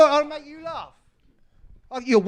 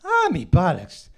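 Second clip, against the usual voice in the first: put-on Irish accent; 4 semitones lower than usual. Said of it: "That's a terrible Irish accent".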